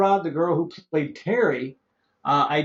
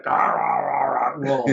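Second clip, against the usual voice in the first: imitated wordless growling; 3 semitones lower than usual. Imitates a wordless film role.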